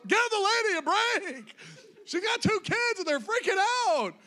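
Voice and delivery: half-laughing, fed up with the onlookers; exasperated plea. Retold or imitated. Preacher mocking the unhelpful passengers, high and exasperated.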